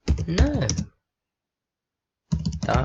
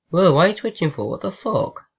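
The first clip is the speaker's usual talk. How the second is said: sudden loud startled outburst, high; 5 semitones higher, 3 dB louder, faster than usual. Real, not acted. Gamer startled as chatbot video glitches, loud surprise.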